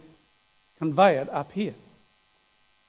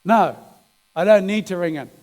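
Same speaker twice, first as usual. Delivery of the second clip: arguing out loud; 6 dB louder than usual. Retold or imitated. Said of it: "he's saying out loud".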